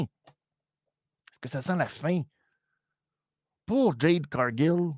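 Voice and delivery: lente et appuyée, façon bande-annonce; étire chaque mot pour le suspense; question dramatique. Real, not acted. (question lente et théâtrale)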